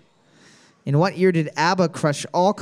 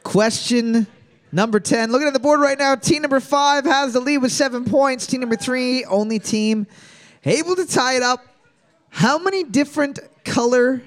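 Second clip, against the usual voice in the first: game-show announcer; 6 semitones higher than usual. Real, not acted. Host announces scores and next question.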